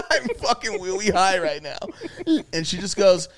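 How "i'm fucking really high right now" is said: put-on higher baby talk with R as W; hammed-up three-year-old voice, amused; mock toddler talk. Repeating his confession to girlfriend, mock toddler talk. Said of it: "talking like I was three".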